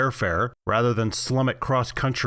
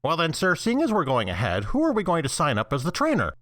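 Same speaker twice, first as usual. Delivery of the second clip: snooty waiter; 6 semitones higher than usual. Acted. Subservient assistant addressing boss.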